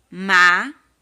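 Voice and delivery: Macaco called out loud for the class; teacher modelling Macaco loudly; loud model word. Shown as a demonstration. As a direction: belt out Macaco for children to repeat. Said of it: "vamos ler com tia cada palavrinha?".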